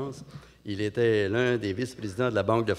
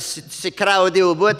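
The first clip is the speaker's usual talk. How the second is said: slow, higher put-on lady; Montréal lady; 5 semitones higher, 4 dB louder, slower than usual. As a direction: drag it out, overwhelmed.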